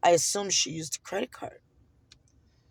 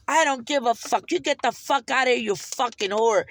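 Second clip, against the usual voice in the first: retold angry cursing; 2 semitones higher than usual. Acts out attendant cursing her.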